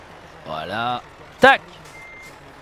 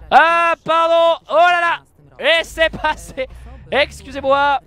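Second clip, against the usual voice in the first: drawn-out pardon; 6 semitones higher, 5 dB louder, slower than usual. Pretend. Squeezing truck past cars.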